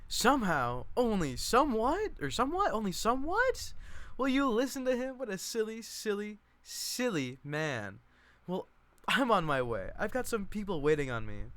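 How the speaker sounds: very high, loud teasing cousin voice; hammed-up high scold of a silly man; Chick. Chick redone after mic turn.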